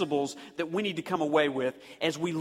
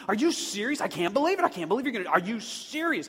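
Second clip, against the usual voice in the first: excited disbelief; 4 semitones higher, faster than usual. Retold or imitated. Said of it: "that's joy in our home".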